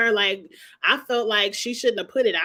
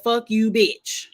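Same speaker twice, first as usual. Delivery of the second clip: slow cussing out; slower than usual. Retold or imitated. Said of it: "And Mia said".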